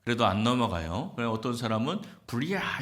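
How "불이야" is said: higher-pitched pretend cry of fire; mock fire alarm. Pupil tricking the teacher out with a false fire cry, mock alarm. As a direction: call it out high, without real volume. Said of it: "이러고 불렀다고".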